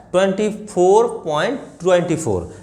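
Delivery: Twenty four point twenty four with the decimals as one number; the students' mistaken reading; wrong reading. Shown as a demonstration. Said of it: "ऐसे गलत है".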